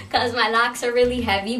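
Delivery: laughing through the words, out of breath; laughing breathlessly. Real, not acted. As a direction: still catching breath, laughing. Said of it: "running out of breath".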